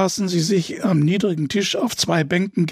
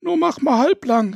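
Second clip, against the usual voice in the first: calling out; 8 semitones higher than usual. A narrator's reading. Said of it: "rief es aus der Küche".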